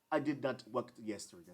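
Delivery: imitated British English accent; teacher's imitation of British English. Shown as a demonstration. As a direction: say it as a British speaker would. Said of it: "siempre le va a decir así".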